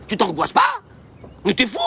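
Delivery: mock-scandalised, jumping high on the question; high-pitched disbelief; incredulous outburst. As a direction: act appalled at someone's calm. Acted rebuke of someone not anxious.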